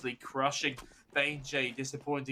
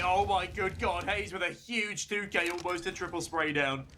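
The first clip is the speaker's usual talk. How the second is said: excited; 5 semitones higher than usual. Real, not acted. Clutch play excites the caster.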